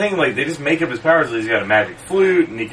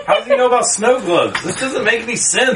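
high, laughing confusion; laughing disbelief; 11 semitones higher than usual. Real, not acted. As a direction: giggle out the question.

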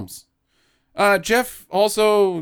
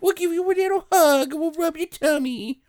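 mock baby talk; 10 semitones higher than usual. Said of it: "And they're like".

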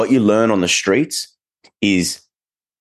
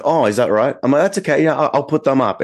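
higher and sing-song, faking cheerful compliance; mock sweet agreement; 7 semitones higher than usual. To the manager who asked to move the dogs, mock sweet agreement. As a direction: act breezy and unbothered, with sarcasm underneath.

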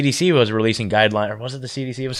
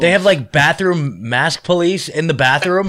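laughing disbelief; 3 semitones higher, slower than usual. Real, not acted. Incredulous question about bathroom rule.

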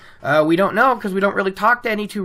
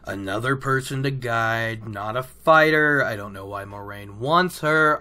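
low, grumbling mock frustration; mildly frustrated; 5 semitones lower, 4 dB quieter than usual. Imitating Lan unhappy about another person to guide, frustrated. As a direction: grumble it under your voice, lower. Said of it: "He's kinda frustrated".

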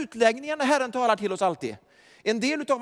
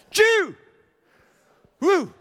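whooping cheer; 9 semitones higher, 6 dB louder than usual. Real, not acted. Preacher's exclamations after climax.

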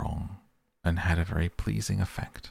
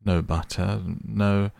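grinning; 4 dB louder than usual. Acted.

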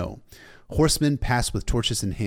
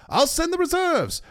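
very high-pitched urgent yell; battle shout; 3 dB louder than usual. A narrator's reading. Officer to the old bear amid battle, high shout. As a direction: yell it over the fighting.

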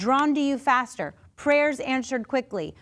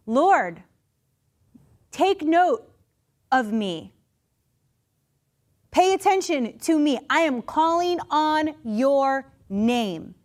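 pleading call; 3 semitones higher, 3 dB louder, slower than usual. Retold or imitated. Calling out to the Lord.

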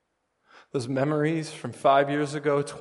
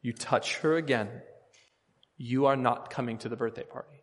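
very serious warning. Retold or imitated. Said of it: "I said it very seriously".

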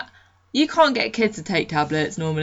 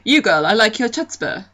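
put-on Canadian accent; 3 semitones higher, 4 dB louder than usual. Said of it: "he said it in a fake Canadian accent".

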